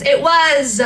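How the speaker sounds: plain reading voice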